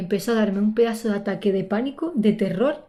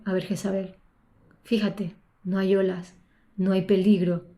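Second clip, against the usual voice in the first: calming self-talk. Retold or imitated. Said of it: "Me hice la pregunta y dije".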